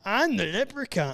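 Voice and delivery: lightly voiced leprechaun, pitch lifted; a hint of playful leprechaun character. Playing Lucky the Leprechaun.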